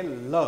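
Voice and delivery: ल said alone as a clear "la"; demonstrated L sound. Shown as a demonstration. Teacher showing students the sound, demonstrated ल "la". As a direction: sound out ल by itself, tongue touching up. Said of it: "बोलने की कोशिश करेंगे".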